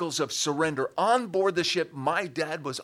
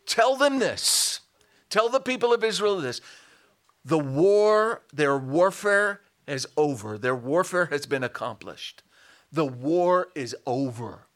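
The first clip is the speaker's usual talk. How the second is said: raised, measured town-crier proclamation; crying out; 4 dB louder than usual. Shown as a demonstration. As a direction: proclaim the news with weight and volume. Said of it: "the crying out was this".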